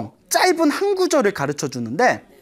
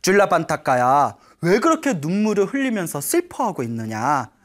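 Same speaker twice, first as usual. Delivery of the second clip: P=A; Buddha gently asking; 2 semitones lower than usual. Acted. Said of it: "일부러 질문을 던집니다".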